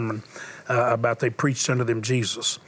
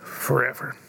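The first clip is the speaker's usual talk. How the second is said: sermon storytelling. Acted. Preacher tells a dying boy's story to the congregation. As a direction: let each pause land, preacher telling a story.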